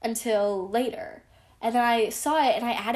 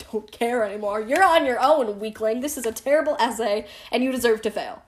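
louder, cold mock telling-off; harsh brush-off; 4 dB louder than usual. To the rude classmate, a louder harsh brush-off. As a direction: dismiss the classmate with a harsh jab. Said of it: "That's actually really harsh".

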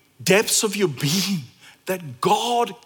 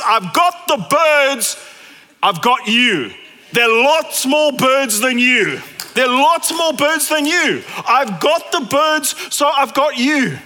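reassuring Jesus; 6 semitones higher, 5 dB louder than usual. Retold or imitated. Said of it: "Jesus's point is".

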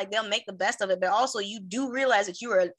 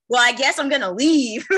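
louder, said through a laugh; laughing resignation; 4 semitones higher, 8 dB louder than usual. Retold or imitated. Abandoned at a party, shrugging it off laughing. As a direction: give up with a laugh. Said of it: "I would've been like".

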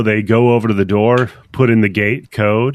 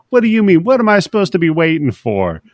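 higher-pitched mock disbelief; retold villain's exasperated questioning; acted incredulity; 7 semitones higher, faster than usual. Judge Lex taunting wounded Dredd for saying wait, acted incredulous.

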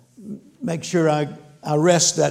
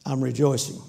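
mock half-hearted rejoicing, a bit lower; unenthusiastic; 3 semitones lower, 4 dB quieter than usual. Pastor grudgingly answering God, half-hearted. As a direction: say it grudgingly, without zeal. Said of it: "What about that en-, much enthusiasm".

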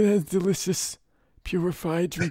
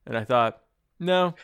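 Brando voice; 4 semitones lower, 4 dB louder than usual. Acted. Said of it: "doing that voice".

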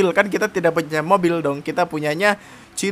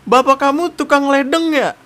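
gombalan basi; 8 semitones higher, 4 dB louder than usual. Retold or imitated.

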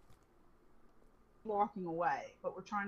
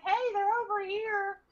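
much higher, louder shout of discovery; calling out; 12 semitones higher, 8 dB louder than usual. Retold or imitated. Girl spots them behind bushes, shouting loudly. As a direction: yell it across the yard to the others.

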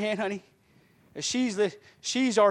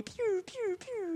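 high, soft "pew" sounds, falling; toy-laser ricochet noises; imitated ricochet; 6 dB quieter, much slower than usual. Shown as a demonstration. Pastor mimics sin bouncing off him, high falling pews.

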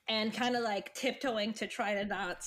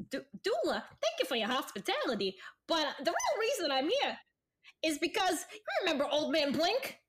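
Jeb getting down to business; 4 semitones higher than usual. Acted. Plays Jeb addressing Dula.

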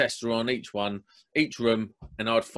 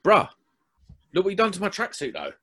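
Croydon lad; 6 semitones higher, faster than usual. Retold or imitated. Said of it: "I was very croydon at the time".

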